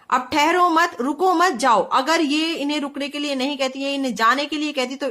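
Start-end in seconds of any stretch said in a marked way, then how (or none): 0.3-1.8 higher, with "ठहरो मत" grouped as one order; pause after मत. Shown as a demonstration. Teacher spelling out the opposite meaning, pausing after "मत". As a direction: keep each "मत" with the verb before it. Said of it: "इसका opposite अर्थ निकलेगा".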